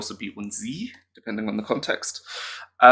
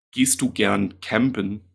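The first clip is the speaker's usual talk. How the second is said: manly; 2 semitones lower than usual. Shown as a demonstration. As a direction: drop the voice a bit for campen. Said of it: "I'm gonna say campen. That sounds more manly".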